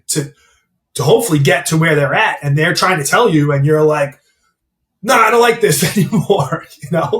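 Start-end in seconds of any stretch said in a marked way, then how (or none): 5.0-6.7 higher-pitched imitation of a complainer; mock complaining. Coach mimicking a trainee who can't stomach feedback, mock complaining. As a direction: lightly mimic someone balking at feedback.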